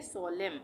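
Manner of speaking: "सोलेम" closing on M; silent N. Shown as a demonstration. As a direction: say "सोलेम" with no N after the M. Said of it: "एन silent". ("सोलेम", आख़िर का न silent)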